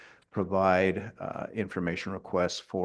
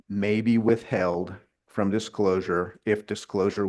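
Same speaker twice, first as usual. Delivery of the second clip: may leaned on, a touch louder; stress on may; 3 dB louder than usual. Real, not acted. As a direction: lean on the word may. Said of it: "I emphasize the word may".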